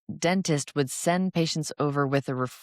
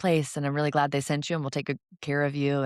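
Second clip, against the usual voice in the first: reassuring. Retold or imitated. Oral surgeon reassures a worried patient, upbeat and kind. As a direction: soothe the nervous patient. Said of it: "I usually will say".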